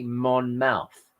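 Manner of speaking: "Monmouth" ending in "mouth" like the body part; "Monmouth" said MON-mouth with a full "ow"; spelling pronunciation. Shown as a demonstration. Spelling out the town name for chat, MON-mouth. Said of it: "this is M O U T H".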